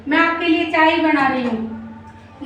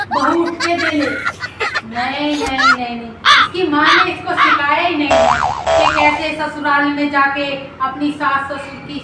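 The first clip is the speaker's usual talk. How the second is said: a hint of a whiny mother-in-law, slightly lower and softer; grumbling mother-in-law; 3 semitones lower, 3 dB quieter than usual. Mother-in-law complaining to the audience about her son's wife, mildly whiny. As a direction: sigh about the worthless daughter-in-law like a put-upon elder.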